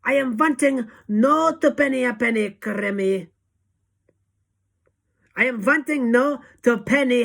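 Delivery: put-on high, loud witch rant in a v-for-w accent; Grand High Witch shout. A narrator's reading. Witch leader scorning cheap shops, loud accented shout. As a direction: shout it with disdain. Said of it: "shouted the Grand High Witch".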